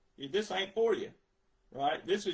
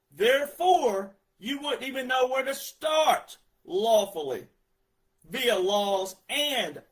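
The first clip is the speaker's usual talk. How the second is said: heated rant; 4 dB louder than usual. Real, not acted.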